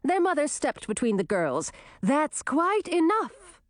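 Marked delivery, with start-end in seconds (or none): 2.0-3.6 stern. Acted. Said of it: "Olivine said".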